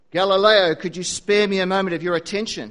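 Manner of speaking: sarcastic teacher calling a student to order; sarcastic professor. Acted. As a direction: needle the daydreaming student. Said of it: "his professor said in a sarcastic voice".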